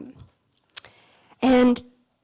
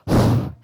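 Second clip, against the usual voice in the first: breathless sigh. Retold or imitated. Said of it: "he was, like, out of breath".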